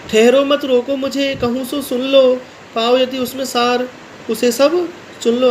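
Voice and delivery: भावपूर्ण कविता पाठ; pleading verse recital. Acted. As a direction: recite it as Kaikeyi begging to be heard.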